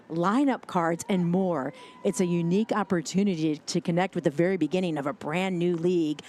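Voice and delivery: smooth sponsor ad read. Acted. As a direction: read it like a radio promo. Sponsor ad read mid-broadcast.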